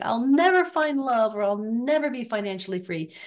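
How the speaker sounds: exaggerated woe, stretching the words. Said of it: "you're so down and out".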